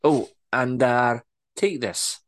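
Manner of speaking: brisk Scottish orders; Scottish boss orders reports on staff; bossy Scottish accent. Acted. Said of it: "better Scottish accent than I'm portraying".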